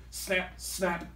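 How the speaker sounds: light mock snapping croc voice; lightly voiced hungry crocodile; snarling crocs. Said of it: "snarled the hungry crocs".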